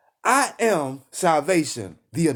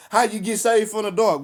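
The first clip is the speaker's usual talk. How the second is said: preaching shout; 5 semitones higher than usual. Acted. Preacher calling out to his listeners, raised shout. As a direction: belt the question to the crowd.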